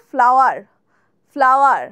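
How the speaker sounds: mock school-kid ফ্লাওয়ার; childhood mispronunciation. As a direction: imitate the childhood ফ্লাওয়ার, low and heavy. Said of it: "ছোটবেলায় কি বলতাম".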